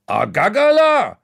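man behind the counter shouting the order; shouting in Franconian. Acted. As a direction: bellow the order across the room. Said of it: "schreit der Mann hinter der Theke wieder".

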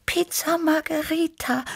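high, purring little cat voice; purring Tibi. A narrator's reading. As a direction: purr it like a sweet young cat. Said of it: "schnurrte Tibi".

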